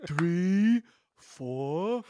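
high, slow counting swelling into loud mock triumph; Cowardly Lion-like voice. Pretend pupil proudly showing Danny the counting, hammed-up triumph. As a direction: count in a hammy put-on voice, then crow proudly. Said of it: "Have you ever played the Cowardly Lion".

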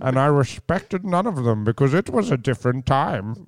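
Sean Connery voice. Retold or imitated. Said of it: "Sean Connery".

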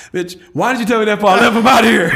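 hammed-up fury at the nurse; retold yell. Telling off the nurse who never warned him, mock yell.

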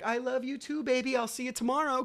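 put-on high sing-out to a child; retold loving goodbye to his little girl; affectionate reply. Calling back to his daughter.

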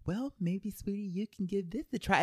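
high, sugary parent imitation; tiptoeing condescension. Imitating a parent avoiding blunt criticism, condescending. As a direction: tiptoe round it in a high, patronizing voice. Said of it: "like, don't tiptoe around it".

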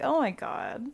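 laughing loud disbelief at her sister; excited. Retold or imitated. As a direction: react like the list is hilarious. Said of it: "And I was like".

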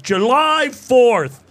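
put-on drunk slurring. Drunk friend quoted at bouncer.

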